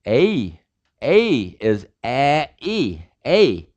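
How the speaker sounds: A drawn out as a glide, ay-ee; English diphthong vowels. Shown as a demonstration. Teacher demonstrating English vowels as glides. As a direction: slide from one vowel into the next on A. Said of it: "They're all diphthongs".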